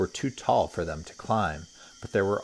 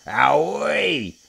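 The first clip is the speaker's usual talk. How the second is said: higher, louder startled cry; 8 semitones higher, 8 dB louder than usual. Acted. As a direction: yelp as he is knocked flying. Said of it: "cried the crocodile".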